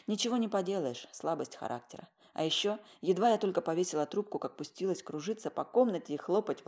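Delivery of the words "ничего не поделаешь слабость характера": plain reading voice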